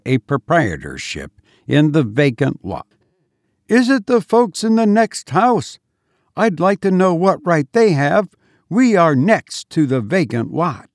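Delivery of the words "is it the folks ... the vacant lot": high-pitched, affronted mistress; indignant. A narrator's reading. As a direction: bristle as if the lot were yours. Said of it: "rising to indignation".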